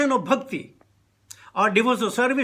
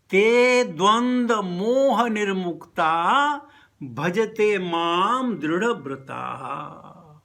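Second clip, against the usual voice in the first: verse recitation; 2 semitones lower, much slower than usual. Acted. Quoting Sanskrit verse.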